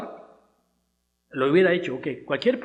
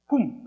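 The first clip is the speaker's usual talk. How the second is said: imitated bomb blast; 4 semitones higher than usual.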